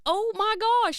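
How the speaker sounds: high mock-shocked mom voice; mom impression. Daughter imitating her mom's shocked call. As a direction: squeal it like a scandalized mother. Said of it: "she's like".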